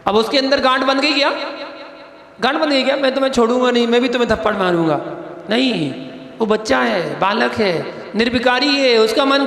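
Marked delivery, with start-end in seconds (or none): 3.0-5.0 grudge voice. Acted. Imagined grudge-holding child.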